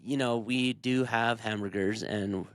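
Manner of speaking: low, rambling dodge; a hint of a waffling politician; mock politician. Politician dodging a simple cheese question. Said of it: "he's like, um".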